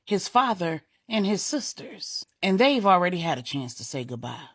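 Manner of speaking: a mother standing her ground; firm grieving defiance. Acted. Grieving mother defends her loss.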